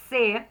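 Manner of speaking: "C" said as sê, with closed E. Shown as a demonstration. Teacher reading C plus E, closed-vowel syllable. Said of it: "som do E fechado".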